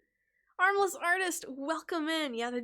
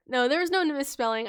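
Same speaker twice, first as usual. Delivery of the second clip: breathless after laughing; panting through the words; out of breath; 3 semitones higher, 6 dB louder than usual. Real, not acted. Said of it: "Gotta catch my breath".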